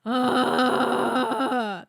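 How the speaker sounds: gritty held growl; practice growl. Shown as a demonstration. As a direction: hold a rough growl.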